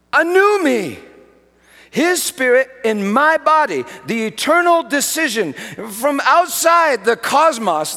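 fervent revival preaching; preaching at full force. Acted. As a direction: thunder it from the pulpit.

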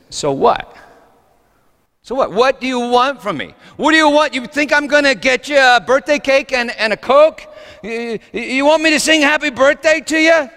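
high, loud, incredulous mocking retort; scornful retort. Second prostitute answers the birthday announcement, scornful. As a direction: throw the questions back, rising high and indignant.

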